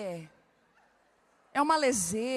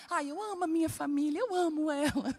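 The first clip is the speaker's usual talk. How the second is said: gushing mockery; 3 semitones higher than usual. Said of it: "Você vai sair pulando daqui assim".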